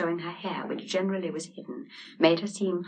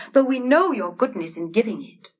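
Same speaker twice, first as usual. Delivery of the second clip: panting; 6 semitones higher, 7 dB louder than usual. A narrator's reading. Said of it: "panted Hans".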